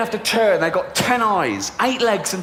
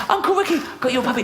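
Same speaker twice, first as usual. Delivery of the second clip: put-on very high squeaky child voice; excited little girl; 8 semitones higher, faster than usual. Niece running to her uncle, high squeal. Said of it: "she comes running".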